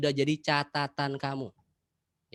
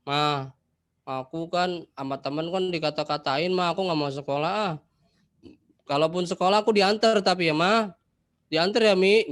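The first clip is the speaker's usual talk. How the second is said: put-on whiny child; 4 semitones higher, 6 dB louder than usual. Anak manja merengek ke mama.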